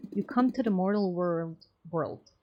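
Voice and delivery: solemn declaiming; lightly grandiose delivery; archaic oration. Acted. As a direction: orate like an old scripture. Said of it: "Why am I speaking like this?".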